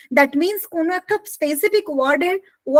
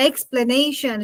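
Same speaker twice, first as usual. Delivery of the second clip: "Explanation" with the main stress on NA; slower than usual. Shown as a demonstration. Teacher asking where the stress falls, "Explanation" stressed on NA. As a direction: lean on the third syllable of "Explanation". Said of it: "listen to how I am using the word".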